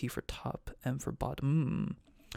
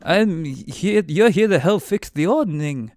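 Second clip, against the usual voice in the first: higher, louder giant voice; cloud giant voice; 6 semitones higher, 9 dB louder, slower than usual. Acted. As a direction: announce yourself as the big friendly giant. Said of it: "Why did I do the voice?".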